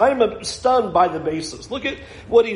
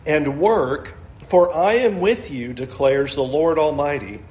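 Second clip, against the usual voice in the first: measured, solemn Bible reading with falls on Lord; scripture reading. Acted. Pastor reads Haggai aloud, solemn and measured. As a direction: read the prophet's words to the congregation.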